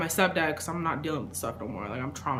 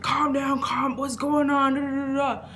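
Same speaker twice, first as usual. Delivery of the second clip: higher, a touch slower, lightly voiced soothing mom; calming mom; 7 semitones higher, slower than usual. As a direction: settle a panicking kid down like mom would. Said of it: "And she's like".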